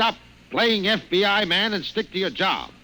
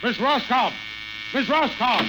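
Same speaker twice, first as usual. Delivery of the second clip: calling out; 5 semitones higher than usual. Acted. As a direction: shout her name through the door. Boss yelling for his secretary.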